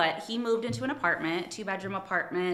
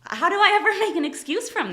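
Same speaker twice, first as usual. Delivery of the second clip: laughing; 12 semitones higher, 9 dB louder, faster than usual. Real, not acted. Guest laughs at own point.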